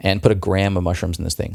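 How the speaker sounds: usual speaking voice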